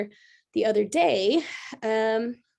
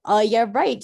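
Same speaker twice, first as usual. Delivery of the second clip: sarcastic; 6 dB louder than usual. Retold or imitated. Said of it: "And I'm like".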